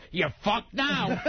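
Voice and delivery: mock triumphant, slow delivery; gloating punchline. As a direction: stretch it out as the joke's payoff. Punchline shouted by man in joke.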